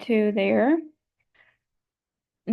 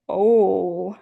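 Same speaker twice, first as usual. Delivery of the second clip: a lower, relaxed oh. Shown as a demonstration. Teacher demonstrating relaxed vocal folds, low voice. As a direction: drop the voice down low. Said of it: "to speak in a lower voice like this".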